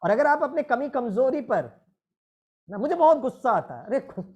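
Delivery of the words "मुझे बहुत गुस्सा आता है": huffy confession of temper; angry complaint. Shown as a demonstration. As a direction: blurt out "गुस्सा" crossly, as if fed up. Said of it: "अपने गुस्से में और गुस्से से बोलो".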